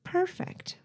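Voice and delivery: breathy high sultry purr. Acted. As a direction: purr it seductively. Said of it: "Jennifer said in a sultry voice".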